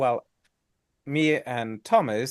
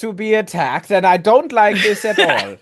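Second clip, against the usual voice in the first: put-on German accent; 9 semitones higher, 14 dB louder than usual. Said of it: "the German accent".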